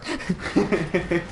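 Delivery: high retold disbelief; shocked "what". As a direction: squeak it out in shock. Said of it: "I was like".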